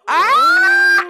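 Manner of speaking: loud high-pitched scream; retold scream. Host retelling her reaction to salon drama, mock scream. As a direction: let out a sudden piercing shriek.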